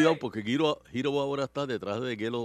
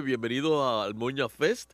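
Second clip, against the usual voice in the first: ringmaster; 3 semitones lower, slower than usual. Pretend. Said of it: "señoras y señores".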